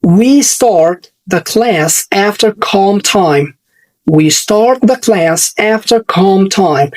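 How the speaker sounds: each word said very slowly; very slow and clear, for the class to repeat; slow example reading. Shown as a demonstration. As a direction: drill sentences at a crawl, stretching every ah. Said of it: "رقم أربعة".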